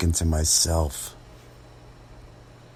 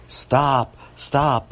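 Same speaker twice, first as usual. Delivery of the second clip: higher, urgent narrated yell; 8 semitones higher, 4 dB louder than usual. A narrator's reading. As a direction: yell it sharply to fend someone off. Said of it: "I'm yelling at the old lady".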